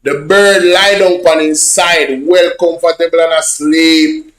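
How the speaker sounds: slow, spelled-out repeat of The bird lie down; slow repeat for clarity. Shown as a demonstration. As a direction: say it again slowly so they catch it. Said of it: "I don't think y'all hear me though".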